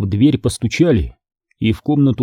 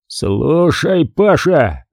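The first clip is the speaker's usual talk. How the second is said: roared; 5 semitones higher, much slower than usual. Acted. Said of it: "взревел комбат".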